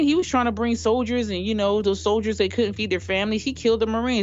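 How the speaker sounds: a hint of an aggrieved Trump fan; imitated insistent supporter. Acts out coworker's rant about Marines.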